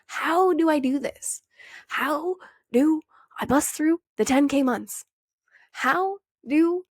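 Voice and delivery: high, pleading, drawn-out questions; mock the clueless beginner begging for answers; high-pitched mock whine of someone lost; whiny lost seeker. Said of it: "A lot of us are sitting here going".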